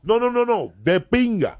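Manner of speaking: high-pitched, drawn mock refusal; mock protest. Storyteller acting out a refusal over dinner, high mock protest.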